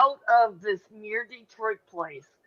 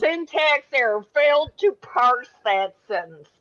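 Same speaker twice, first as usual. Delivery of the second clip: robot error voice; 4 dB louder than usual. Pretend. Mock computer error voice.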